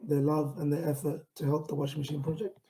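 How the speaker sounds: earnest, driven pitch read; pitch delivery. Shown as a demonstration. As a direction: sell the project with conviction, building to the call.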